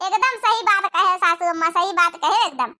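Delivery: laughing. Acted. Laughing agreement with taunt.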